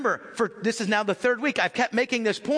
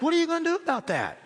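higher, fast, a touch of accusing onlookers; mock demanding mourners; 8 semitones higher, faster than usual. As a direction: fire it off as the staring mourners. Mourners' stares voiced as a quote.

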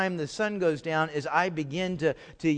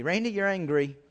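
gentle warning. Acted. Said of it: "Here's what God is saying to me".

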